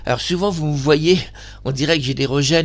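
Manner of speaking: talking through hiccups; words broken by little hiccups. Real, not acted. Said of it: "j'ai le hoquet". (avec le hoquet)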